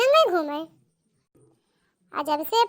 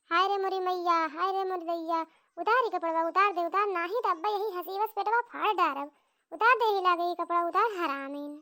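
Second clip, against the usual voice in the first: wailing mother-in-law. Acted. Mother-in-law wails and demands.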